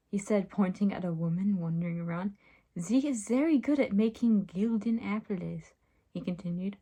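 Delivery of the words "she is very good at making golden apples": hammed-up French accent. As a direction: put on a clumsy French accent. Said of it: "how French accents worked".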